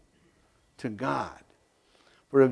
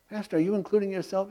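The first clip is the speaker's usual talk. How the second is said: imagined congregant; 6 semitones higher, 3 dB quieter, much faster than usual. Retold or imitated. Congregant's question voiced by pastor.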